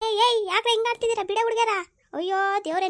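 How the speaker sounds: high-pitched exclaiming intervention; alarmed scolding. Acted. Grandmother finds two sisters fighting, alarmed scolding. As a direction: call out sharply to break up a fight.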